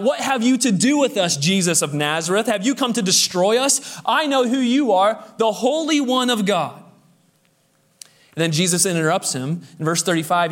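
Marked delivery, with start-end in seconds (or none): 0.0-6.8 higher-pitched, mildly raised outcry; acted challenge from a possessed man; crying out. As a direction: cry it out without fully shouting. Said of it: "The man cries out".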